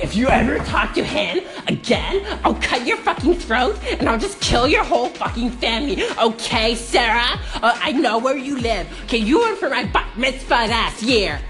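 laughing through a hammed-up threat; half-laughing mock menace at a rival. Vlogger retelling her knife threat to the other girls, laughing mock menace. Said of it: "I'm just like".

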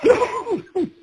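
high, laughing through the story. Real, not acted. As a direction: laugh while you tell it. Laughing retelling cold shower shock.

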